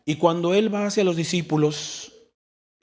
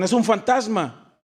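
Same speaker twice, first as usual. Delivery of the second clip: mock frightened cry; 7 semitones higher, 3 dB louder, slower than usual. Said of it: "se turbaron y gritaron".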